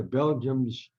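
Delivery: "Belgians" said as "BEL-jums", drawn out; mispronounced Belgians. Retold or imitated. Boxer working up the crowd in Zaire, "Belgians" mispronounced as "Belgiums". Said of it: "He always said Belgiums".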